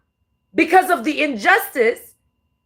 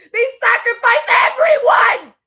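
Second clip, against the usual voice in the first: the same words again, higher and shouted; crying shout, escalating; 4 semitones higher than usual. Real, not acted. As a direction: push the second one out harder. Repeats it, louder.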